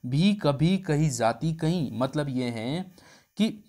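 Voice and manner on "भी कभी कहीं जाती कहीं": sarcastic reply. Retold or imitated. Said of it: "और जवाब में आया".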